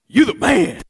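laughing, high and loud "You the man" like a buddy's compliment; casual praise. Shown as a demonstration. Preacher showing the wrong reading, jokey praise. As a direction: hype up a friend with a grin. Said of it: "He's not saying".

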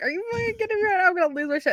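fast, high, furious disbelief; furious outburst. Retold or imitated. Retelling losing it at mom over the workout, fast furious outburst. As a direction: blow up at her.

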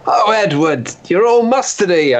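giddy, high delighted howl. Retold or imitated. Lovestruck man to statue, delighted howl. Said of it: "I'd howl in delight".

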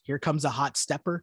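HOT STEPPER in careful, unsung everyday speech; oddly enunciated. Shown as a demonstration. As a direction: recite "hot stepper" stiffly as plain words. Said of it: "'cause that sounds weird".

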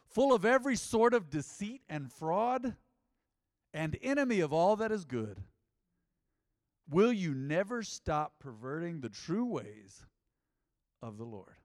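loud, slow, thundering rebuke; fiery preacher reading, loud and slow; dramatic reading. Shown as a demonstration. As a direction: read it like Paul cursing the sorcerer, slow and booming. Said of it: "Whoa, can we read that again?".

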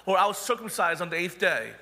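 playful boastful listing; a hammed-up show-off reciting his credentials; mock bragging. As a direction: brag like a smug super apostle. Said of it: "Perhaps they could say".

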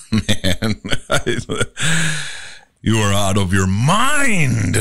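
laughing through the line; giddy laugh then the words; happy scene. Shown as a demonstration. Demo happy scene, laughing at a friend. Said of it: "Happy scene".

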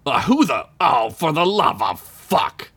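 dismayed to find who it is; not happy. A narrator's reading. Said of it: "obviously not happy to hear Sid".

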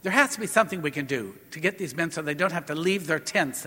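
mildly upset, fast urgent insistence; retold upset plea. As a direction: retell his plea quickly, a little agitated. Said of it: "he was all upset about it".

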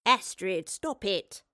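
mild, firm reproof; a touch of scolding; chiding. A narrator's reading. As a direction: rein her in briefly. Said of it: "the professor chided".

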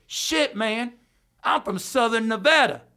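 high-pitched lazy hillbilly impression; imitating Justin. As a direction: mimic a laid-back redneck buddy. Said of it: "That's how he talks".

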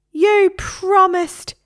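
slow, high parrot scream. Acted. Parrot to the boy who promised, high drawn-out scream. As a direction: drag it out in a squawky scream. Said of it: "screamed Harry".

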